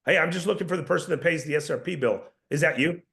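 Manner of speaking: falling tune on the statement; calm downward inflection. Shown as a demonstration. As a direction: say it with authority, not asking. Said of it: "Did you notice the inflection?".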